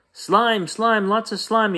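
put-on high-pitched childish yell. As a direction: cry out in disgust like a small boy. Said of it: "yelled Tate".

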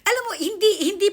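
sharp, high, loud refusal; emphatic no. Real, not acted. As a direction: shoot the idea down at once. Mariing tanggi sa tanong. (mariing pagtanggi, malakas)

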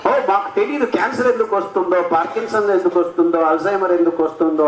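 fast, dismissive mock of experts; mocking scientists. Mocking scientists who say they don't know why, fast and dismissive. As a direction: rattle it off as if feigning ignorance. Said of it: "అంటూ".

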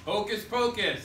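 lively chanted call to the class; sing-song classroom callback; attention call. Acted. Teacher call-and-response attention getter.

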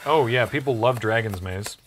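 dry sarcastic agreement; deadpan mock approval. Real, not acted. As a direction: feign fondness, barely selling it. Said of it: "Can you sense the sarcasm".

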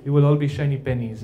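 attempted Albanian accent; rough Albanian accent; Mother Teresa. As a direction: imitate an Albanian-accented nun, not very well. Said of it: "Or the Albanian accent".

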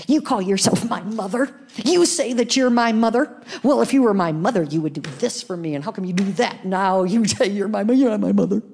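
mock accusing daughter; daughter's accusation. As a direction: rattle it off like an upset kid. Daughter Rachel's accusing rant.

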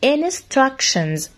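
Instructions with the -tions ending said as "shun". Shown as a demonstration. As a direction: slowly say Instructions, ending in a clear "shun" sound. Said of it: "عاملين لي صوت الشن".

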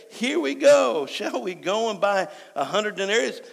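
high, loud-starting grumble of protest; mock complaint. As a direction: imitate disciples balking at an order. Acts out the disciples' complaint.

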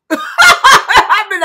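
loud high laugh into the words; uncontained outburst. Retold or imitated. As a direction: burst out, unable to hold back. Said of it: "I couldn't hold it back".

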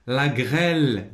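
slow, stretched classroom read-out; drawn-out dictation reading. Shown as a demonstration. Teacher reads the exercise word to pupils, drawn out.

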